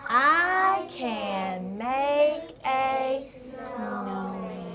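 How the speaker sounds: each word of I can make a snowman said slowly apart; very slow pointed reading. Shown as a demonstration. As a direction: read word by word while pointing. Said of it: "read it again".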